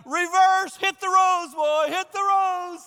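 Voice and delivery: high, loud frantic yell; Peter panicking. Retold or imitated. Peter yelling to reverse the boat, high and loud. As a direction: bark the order to row back. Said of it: "If I was Peter, I'd have been like".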